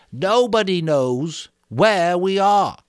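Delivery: Piggy tells Jack he's getting in Ralph's way, high and insistent. Acted. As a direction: scold them for interrupting. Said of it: "said Piggy".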